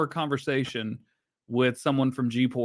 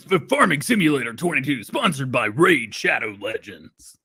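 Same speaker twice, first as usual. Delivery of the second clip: movie announcer voice. Pretend. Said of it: "haven't done the movie voice, uh, announcer voice".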